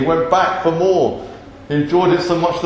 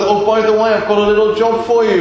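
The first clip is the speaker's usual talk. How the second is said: lightly acted casual aside, higher; breezy request; 3 semitones higher, faster than usual. God casually offering Moses a little job, breezy. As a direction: make a huge errand sound trifling.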